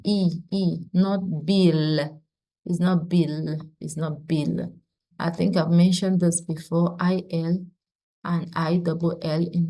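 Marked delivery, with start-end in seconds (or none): 0.9-4.7 "Bill" said with a clear L as the wrong form; not Bill. Shown as a demonstration. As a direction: say "Bill" as the error to avoid. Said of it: "Please don't pronounce the H".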